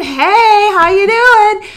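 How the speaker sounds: high, squeaky little critter greeting; chipmunk greeting. Retold or imitated. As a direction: chirp it like a cheeky chipmunk. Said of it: "the chipmunk is saying".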